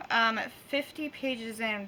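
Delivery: careful, slow through tooth pain; with a sore jaw. Real, not acted. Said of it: "That was hard".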